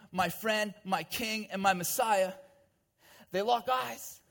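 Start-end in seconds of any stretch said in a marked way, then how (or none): 3.3-4.2 raised, emphatic sermon storytelling; impassioned preaching. A narrator's reading. Preacher dramatizing Peter's shame to the congregation, impassioned. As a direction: press the drama home in a higher voice.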